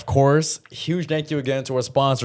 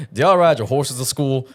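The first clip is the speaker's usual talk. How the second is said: slow, light Southern accent attempt; a half-hearted stab at a Southern drawl, slowed down; mild Southern accent, slightly slowed; country accent; slower than usual. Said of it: "do your best country accent".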